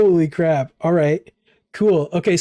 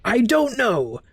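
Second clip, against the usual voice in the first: higher, airy voice of a trapped spirit; talking bobblehead voice; 6 semitones higher than usual. Acted. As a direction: speak as a small bewildered idol.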